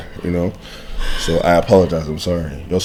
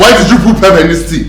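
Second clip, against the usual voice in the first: angry; 2 semitones higher, 6 dB louder than usual. Acted. Repeat louder, angrier.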